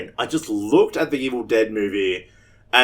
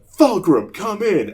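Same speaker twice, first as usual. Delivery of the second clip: imitating the YouTuber; 9 semitones higher, slower than usual. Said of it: "looked at Jane and just went".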